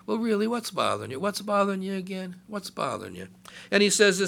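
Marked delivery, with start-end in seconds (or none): 0.1-2.4 higher, tender asking; sweet, caring God. Acted. Voicing God, sweet and compassionate. 2.5-3.3 soft, low and gentle; softer, lower tender asking. Acted. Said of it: "Isn't that sweet?".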